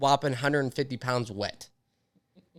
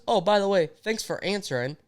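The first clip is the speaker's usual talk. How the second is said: higher-pitched mock thanks, retold; put-on higher voice, pointedly grateful; imitating wife's sarcasm; 7 semitones higher than usual. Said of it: "she goes".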